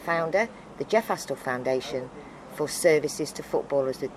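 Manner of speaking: measured, slightly slowed letter read; formal letter reading. Shown as a demonstration. Reading her honours letter aloud to the interviewer, measured and formal. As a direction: read the official letter out carefully, word by word.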